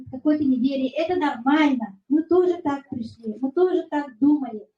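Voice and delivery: ordinary talk, nothing marked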